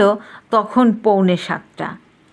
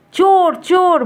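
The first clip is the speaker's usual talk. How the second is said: high, loud cry of alarm; raised, urgent storybook shout; 10 semitones higher, 6 dB louder than usual. A narrator's reading. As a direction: cry out "thief" while giving chase. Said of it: "চিৎকার করে দৌড়লো".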